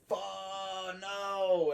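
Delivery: sudden half-joking dismay; panicked realization. Retold or imitated. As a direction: blurt it as the dread hits. Realizing he missed a salute.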